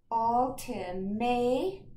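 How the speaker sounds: "ultimate" stretched very slowly; slow sounding out of "ultimate"; stretched word. Shown as a demonstration. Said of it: "let's go to this syllable".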